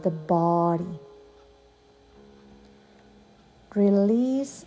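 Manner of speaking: guided meditation, long pauses. Acted. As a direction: lead a yoga nidra, unhurried. Leads a yoga nidra meditation.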